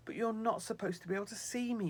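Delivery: high, loud despairing cry; despairing angel. Acted. Snow angel despairing at being seen by Sylvie. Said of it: "he cried in despair".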